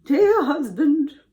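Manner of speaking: high, slow, loud put-on sob; mock weeping. A narrator's reading. Lying wife appeals to her husband, mock weeping. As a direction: wail it slowly with fake tears.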